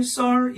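"썰" on a level, sustained pitch; first tone. Shown as a demonstration. Teacher reminding students of first tone, "썰" held level. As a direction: hold "썰" without letting the pitch move. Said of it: "이런 톤이다 그랬죠".

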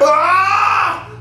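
high, drawn-out cry; distressed scream. Acted. Prisoner desperate to break out of his cell, wailing. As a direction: wail "Ah!" high.

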